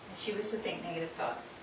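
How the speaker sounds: a real hushed whisper to her; whispering a reminder so the others won't hear. Real, not acted. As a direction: keep it secret and breathy, just for her. Quietly reminding the volunteer.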